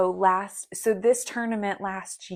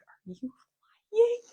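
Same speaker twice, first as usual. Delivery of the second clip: high, slow, doubting; suspicious; 14 semitones higher, much slower than usual. Retold or imitated. The coach doubting her, slow high suspicious ask. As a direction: drag out the question in disbelief. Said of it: "Michael's looking at me like".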